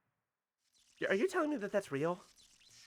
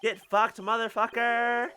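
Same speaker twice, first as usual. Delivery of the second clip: angry. Acted. Cornered villain lashes out.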